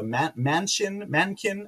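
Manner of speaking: stumbling over Manchin, Mankin; trying the name twice and missing; fumbled name. Real, not acted. Fumbling the senator's name while reading the news. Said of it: "I can't say the guy's name".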